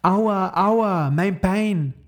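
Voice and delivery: put-on high, loud hurt-boy wail; crying out in pain. Max, lying under the net, cries out high and loud in pain. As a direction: wail it like a boy who just fell. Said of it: "weint und schreit ganz laut".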